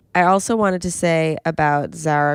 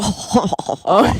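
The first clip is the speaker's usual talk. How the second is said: chortle; 3 semitones higher, 3 dB louder than usual. Shown as a demonstration. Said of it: "like chortle".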